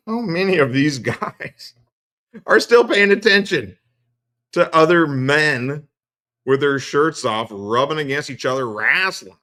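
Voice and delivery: loud, high, laughing incredulity; cracking up while mocking the fans; laughing mockery. Real, not acted. Mocking wrestling fans, laughing loudly.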